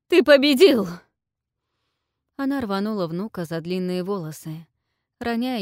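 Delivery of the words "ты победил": much higher, loud desperate cry; strained cry. A narrator's reading. Queen submits to the dragon, strained cry. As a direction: cry out on the edge of breaking. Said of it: "с надрывом крикнула".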